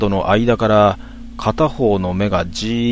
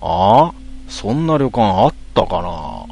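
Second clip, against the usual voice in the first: a doubtful cabbie with a sharp "a?"; a puzzled driver who has never heard of the inn; taxi driver; slower than usual. Acted. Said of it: "すると運転手さんが".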